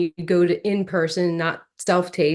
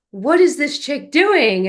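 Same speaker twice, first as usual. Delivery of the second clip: puzzled; 7 semitones higher, 5 dB louder, slower than usual. Retold or imitated. Casting panel puzzled.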